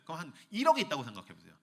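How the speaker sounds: normal talking voice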